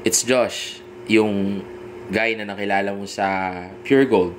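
relaxed, certain self-intro; confident tone. Shown as a demonstration. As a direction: say it like of course she remembers you. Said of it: "Yun yung tamang tono". (sigurado at kumpiyansang tono)

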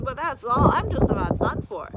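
mildly groaning hurt dragon. A narrator's reading. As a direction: groan like someone nearly done for. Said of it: "groaned Drufus".

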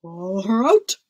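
loud, firm command; ordering. A narrator's reading. King commanding servants to drag princess out, ordering. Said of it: "ordered the king".

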